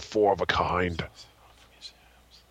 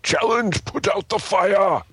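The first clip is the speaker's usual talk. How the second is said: high, booming game-show proclamation; dramatic announcement; 10 semitones higher, 4 dB louder, slower than usual. Acted. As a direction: call out the challenge with a slow, drawn-out finish.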